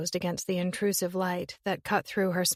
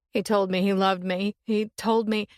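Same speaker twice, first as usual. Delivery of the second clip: louder, rushed through tears; tearful babbling; 4 dB louder than usual. Acted. Summer sobbing to her sister on the phone, babbling. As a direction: babble it out, half crying. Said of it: "Summer babbled".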